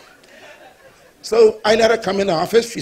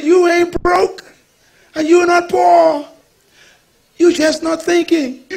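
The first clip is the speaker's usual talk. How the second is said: firm rebuke; 6 semitones higher, 4 dB louder than usual. Retold or imitated. Pastor scolding the woman.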